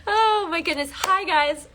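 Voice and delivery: high laughing greeting. Real, not acted.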